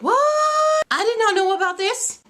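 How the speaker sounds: high, drawn-out startled reaction; mock shock. Teacher learning of classes tomorrow, mock shock. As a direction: replay being caught off guard, pitch shooting up.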